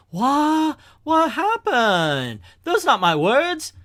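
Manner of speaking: high, bewildered squawk; startled villain. Acted. Warlord hears another voice on his loudspeaker, startled. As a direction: react in baffled alarm.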